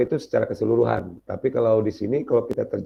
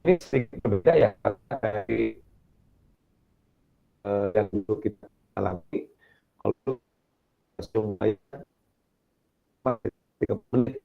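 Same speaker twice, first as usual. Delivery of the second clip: choppy breaking-up audio. Real, not acted. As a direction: voice cutting in and out on a bad call. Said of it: "suaranya putus-putus". (suara putus-putus sinyal buruk)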